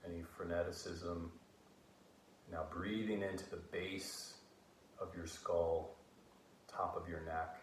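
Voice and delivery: calm, measured meditation voice with long pauses; guided meditation. Acted. Guiding listeners to breathe out tension and stress, calm meditation voice. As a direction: ease them gently through each breath.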